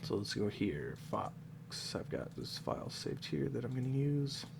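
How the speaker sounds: stuffed-up nose voice; blocked nose. Real, not acted. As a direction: talk through a blocked nose. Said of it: "Sorry if I sound super stuffed up".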